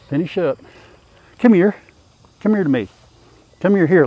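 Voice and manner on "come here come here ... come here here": calling out. Real, not acted. Calling the goats over.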